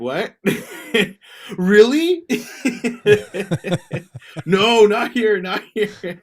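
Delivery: high, loud, laughing imitation; hammed-up startled guy laughing; mock flustered reply. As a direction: squeal it out in mock panic. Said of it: "He's like".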